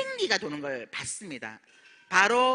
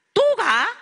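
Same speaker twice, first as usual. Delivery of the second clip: higher, louder, annoyed "또 가?" as the husband; exasperated mock question; 10 semitones higher, 8 dB louder, slower than usual. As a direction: toss it out like a fed-up husband. Husband annoyed at her leaving.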